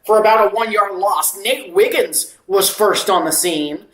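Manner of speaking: steady football commentary; live play-by-play. Acted. Calling a loss and timeout for viewers, play-by-play. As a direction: call the play with measured projection.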